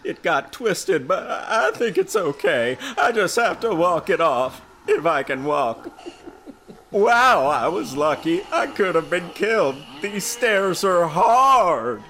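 put-on high-pitched teen girl voice, loud. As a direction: play Lisa in a high girlish voice. Lisa voiced in read story.

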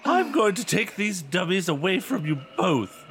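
loud, slow mother laying down law; hammed-up stern mom. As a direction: mom confiscating toys. Mother voiced in story.

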